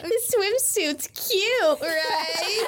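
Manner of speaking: high, slow, sugary cute voice; cutesy boy voice. Retold or imitated. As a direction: play the coy cute boy. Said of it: "He's like".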